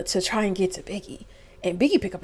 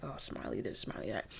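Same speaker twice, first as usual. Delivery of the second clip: mocking gossip; 9 semitones lower, 16 dB quieter than usual. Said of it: "Everyone's like".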